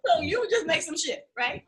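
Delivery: a hint of a curious dad; imitating father. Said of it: "My father was like".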